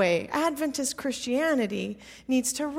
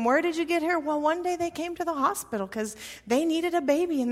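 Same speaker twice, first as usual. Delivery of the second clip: put-on little girl's recital; 2 semitones higher than usual. Daughter telling how she was adopted, lightly voiced little girl's recital. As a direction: rattle off a well-rehearsed story with a hint of a child. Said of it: "In my three-year-old voice".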